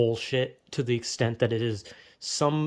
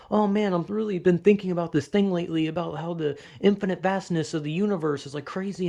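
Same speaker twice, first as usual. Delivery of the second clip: mock stoner musing; 2 semitones higher than usual. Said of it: "I'm like".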